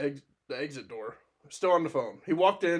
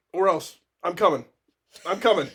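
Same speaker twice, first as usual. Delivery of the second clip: imitated louder threat down the phone; threatening yell; 3 semitones higher, 6 dB louder than usual. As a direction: push it out loud as a mock threat. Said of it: "And then he's like".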